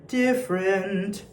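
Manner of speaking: "Different" flowing as "diff-rent"; slow, linked two-syllable "Different"; merged "different". Shown as a demonstration. Choir coach showing notes flowing together, merged "different". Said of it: "merge those two notes together".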